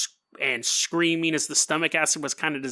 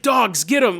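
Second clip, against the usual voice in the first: mildly raised, mock-panicked call; panicked command; 3 semitones higher, 3 dB louder than usual. Hermit sending his dogs after the creature, mock panic. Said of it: "he's totally freaking out".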